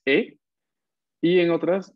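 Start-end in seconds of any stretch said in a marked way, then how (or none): 0.0-0.4 slow demonstration. Shown as a demonstration. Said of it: "vamos a pronunciar".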